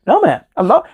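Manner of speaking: high, agitated protest; retold anger. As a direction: protest hotly, as if retelling a row. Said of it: "but I got angry".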